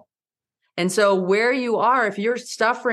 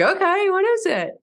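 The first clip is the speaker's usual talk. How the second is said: eager question; 12 semitones higher than usual. Retold or imitated. Retold eager question to coach.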